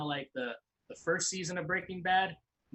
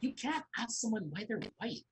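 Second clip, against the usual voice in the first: put-on Mean Girls quote; 6 semitones higher than usual. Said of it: "now we're just quoting Mean Girls".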